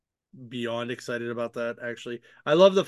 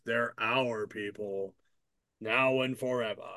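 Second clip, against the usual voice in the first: Sinestro; 3 semitones lower, 4 dB quieter than usual. Retold or imitated. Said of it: "very Sinestro-like".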